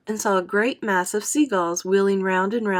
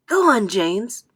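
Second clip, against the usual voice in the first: gentle; 4 semitones higher, 6 dB louder, slower than usual. A narrator's reading. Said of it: "the ladybird said gently".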